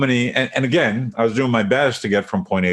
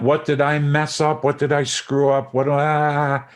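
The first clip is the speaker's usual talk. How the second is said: higher-pitched, frantic self-questioning; mock self-blame; 5 semitones higher than usual. Mimicking reaction mode after a mistake, mock self-blame. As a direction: pile up the questions in mock fretting.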